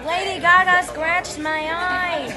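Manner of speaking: loud playful whine; loud playful complaint. Real, not acted. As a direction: call it out with mock outrage.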